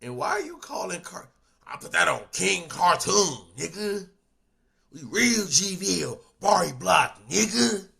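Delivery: imitating a loud Southern country accent. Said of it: "why are you talking in that country ass accent?".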